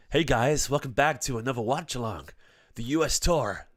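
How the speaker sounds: lightly hammed American streamer intro; put-on American accent. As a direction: welcome viewers in a mock American accent. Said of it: "I don't know what accent that was".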